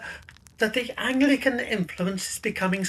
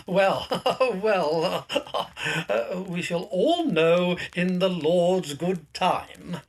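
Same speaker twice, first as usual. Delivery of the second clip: nervous laugh; 3 semitones lower, slower than usual. Acted.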